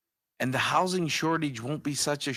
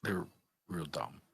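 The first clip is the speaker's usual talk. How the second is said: whispering; 3 semitones lower, 12 dB quieter than usual. Real, not acted. Quietly reading joke cards.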